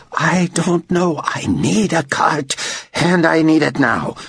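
slow, high-pitched insistence; impatient demand. A narrator's reading. Director demanding a cart now, impatient. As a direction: press each word on a dawdling underling. Director cuts off rambling employee.

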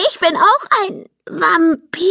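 hoch, erschrocken ungläubige Frage; fassungslos. A narrator's reading. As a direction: als stürze gerade die Welt ein. Polly erfährt, sie sei Vampir. (Polly fragt die Eltern entsetzt nach, hoch und fassungslos)

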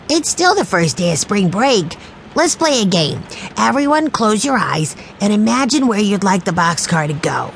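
put-on a small boy daydreaming aloud; dreamy young Benny. A narrator's reading. Narrator holds Benny's child voice.

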